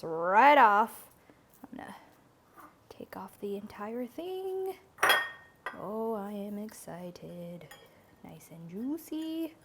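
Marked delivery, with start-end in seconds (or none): 1.6-9.5 whispering. Real, not acted. Carefully pulling chicken off skewer.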